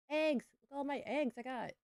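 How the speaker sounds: bursting with delight over the eggs; high and loud, thrilled at the find; excited. Real, not acted. Gamer thrilled to find eggs in her coop, excited. Finds eggs in the farm game.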